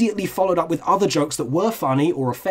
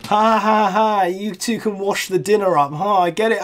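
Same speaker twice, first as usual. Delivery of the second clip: mock laughing realization; 4 semitones higher than usual. Real, not acted. Mocking the joke he just got.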